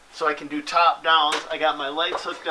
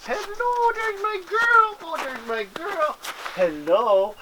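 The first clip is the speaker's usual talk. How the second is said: talking to a dog; slower than usual. Real, not acted. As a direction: coo at the dog, pitch way up. Greeting his dog Storm.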